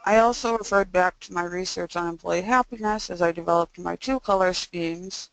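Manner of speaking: stiff jaw, mouth barely opening; speaking after jaw surgery. Real, not acted. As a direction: talk with stuff still in the mouth. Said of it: "so that's why I sound this way".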